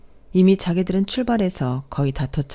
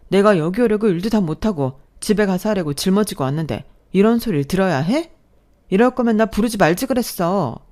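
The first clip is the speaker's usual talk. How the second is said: raised, louder, firing back at him; angry retort; 3 semitones higher, 4 dB louder than usual. Acted. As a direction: snap back at the boyfriend in disbelief. Couple quarrel, she is fed up. (남자친구에게 따지듯 높고 큰 목소리로 쏘아붙임)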